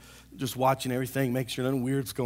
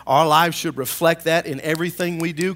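louder, emphatic preacher delivery; preaching; 3 semitones higher, 8 dB louder than usual. Real, not acted. Pastor urging church family to live it, preaching. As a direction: drive it home to the congregation. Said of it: "Let me preach".

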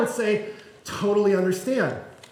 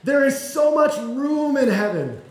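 gentle reassurance; slower than usual. Retold or imitated. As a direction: reassure a ten-year-old that heaven is wide open. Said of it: "someone coming to me and saying".

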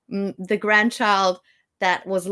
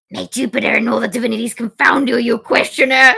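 mock curse; 4 semitones higher, 7 dB louder, faster than usual. Reading Menaechmus cursing the doctor.

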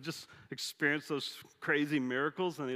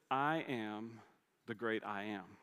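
low and soft, lower pitch; hushed, reverent God; 5 semitones lower, 6 dB quieter, slower than usual. Retold or imitated. God revealing his name to Moses, hushed and low. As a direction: let the name land softly, with awe.

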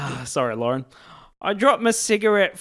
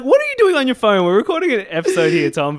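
higher and louder, telling off a co-host; mock scolding; 6 semitones higher, 5 dB louder than usual. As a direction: scold him for using his phone, half in jest. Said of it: "I was like".

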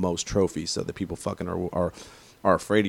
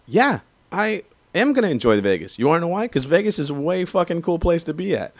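much higher and louder, defiant; defiant comeback; 9 semitones higher, 5 dB louder than usual. Real, not acted. Raider fan answering the Vegas taunt, loud and defiant. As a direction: throw the taunt right back, loud.

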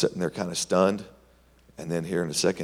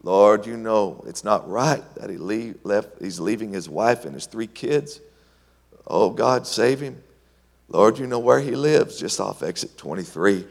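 loud pleading prayer to God; praying loudly; 4 semitones higher, 5 dB louder than usual. Retold or imitated. Preacher retelling a loud prayer for Charlie. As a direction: cry out to God for him.

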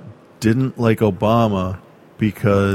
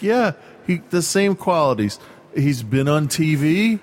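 higher-pitched exasperation at normal volume; mock inner yelling; 4 semitones higher than usual. Answering a Trump supporter in his head, mock exasperated yell. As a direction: imitate yelling inside your head, pitched up. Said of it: "I'm yelling in my head".

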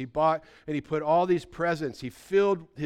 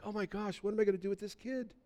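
dismayed aside; 6 semitones higher, 8 dB quieter, faster than usual. Acted. Father's aside about his son.

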